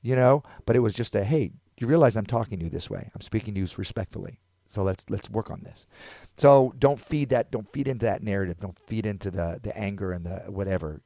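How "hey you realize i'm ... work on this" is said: measured, non-aggressive appeal; calm, respectful. Retold or imitated. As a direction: reason with him politely. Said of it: "He wasn't aggressive with it".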